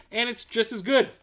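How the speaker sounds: talking with hiccups. Real, not acted. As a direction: speak through the hiccups. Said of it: "got the hiccups again".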